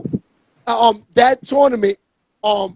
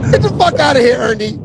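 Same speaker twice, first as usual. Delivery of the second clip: blunt street coach. Retold or imitated. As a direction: bark it like a tough coach. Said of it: "not like he said it like a nerd".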